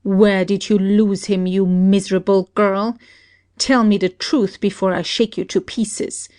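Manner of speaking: furious. Acted. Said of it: "shook her furiously".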